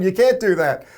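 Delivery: angry rep scolding the program director on the phone. Retold or imitated. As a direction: tell him off sharply.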